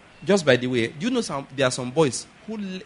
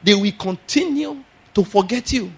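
preached prophetic word; 6 semitones higher than usual. Shown as a demonstration. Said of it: "let me add some preaching".

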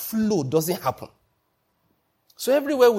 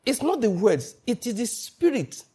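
slow emphasis; 6 semitones higher than usual. Real, not acted. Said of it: "small aside".

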